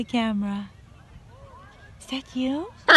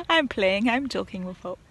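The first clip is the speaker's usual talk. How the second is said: ordinary delivery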